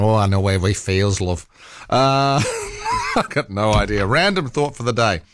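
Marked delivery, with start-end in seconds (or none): 0.0-1.5 lightly put-on Manchester accent. Imagined passer-by sympathising with the cyclist, mock Manchester accent. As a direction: imitate a passer-by with a hint of Manchester. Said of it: "do this with a Manchester accent".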